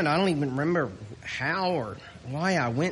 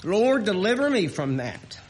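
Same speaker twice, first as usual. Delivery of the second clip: impassioned, louder preaching; 6 semitones higher, 4 dB louder than usual. Acted. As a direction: lift the congregation with hope. Preaching at full force.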